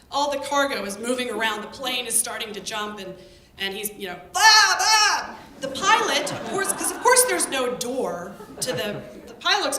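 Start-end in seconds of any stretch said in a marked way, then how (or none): 4.3-5.4 loud, high imitated goat bleat. Goat panics on the plane.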